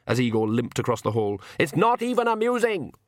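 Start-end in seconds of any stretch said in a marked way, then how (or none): 1.6-2.9 high-pitched, raised complaint; exasperated shout. A narrator's reading. The Count shouting after Igor, high and exasperated. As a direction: call out crossly after someone. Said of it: "the Count shouted".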